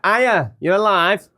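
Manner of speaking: chirpy northern mum, slow and high; imitating his mother, drawn out; mum's voice. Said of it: "She went".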